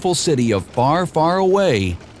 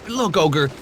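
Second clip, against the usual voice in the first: high, fast, chattering donkey; fast, higher Donkey voice; Donkey's voice; 9 semitones higher, faster than usual. A narrator's reading. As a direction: rattle it off, baffled. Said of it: "he said".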